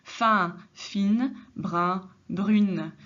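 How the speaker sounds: Fin nasal, fine with a clear n; careful pronunciation contrast. Shown as a demonstration. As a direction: brun then brune, ending n sounded. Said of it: "différentes prononciations".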